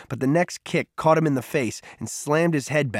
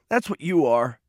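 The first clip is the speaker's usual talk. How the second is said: higher, tearful jab; sobbing; 4 semitones higher, 3 dB louder than usual. A narrator's reading. Crying boy drives his insult home, tearful. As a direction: accuse through tears, pitch raised. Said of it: "Peter sobbed".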